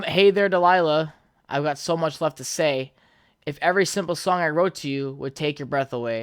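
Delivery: put-on old tone voice. Shown as a demonstration. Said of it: "in my old tone voice".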